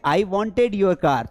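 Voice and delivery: he wants money said very slowly, word by word; slow dictation. Shown as a demonstration. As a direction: spell it out slowly for the class. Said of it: "क्या बोलेंगे?". (धीरे-धीरे बोलकर सिखाना)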